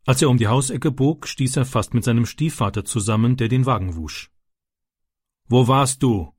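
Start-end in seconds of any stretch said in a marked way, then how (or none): 5.5-6.3 a touch of irritated stepfather; understated annoyed question; irritated father. Acted. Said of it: "fragte sein Vater gereizt". (leicht gereizt)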